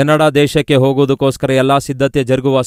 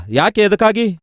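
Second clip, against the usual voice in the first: alarmed question; 6 semitones higher than usual. Retold or imitated. Father hears bad news from doctor.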